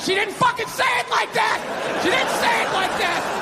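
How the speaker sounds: hammed-up outrage; indignant protest. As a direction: blurt it out in frustration. Defendant protesting in court.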